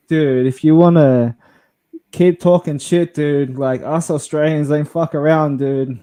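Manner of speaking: loud, aggressive warning to a troll; retold threat. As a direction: puff up and threaten him. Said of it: "And I'm like".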